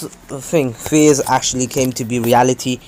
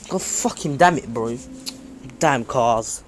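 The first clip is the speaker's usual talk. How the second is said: real annoyed outburst; 4 dB quieter than usual. Real, not acted. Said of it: "This has been pissing me off".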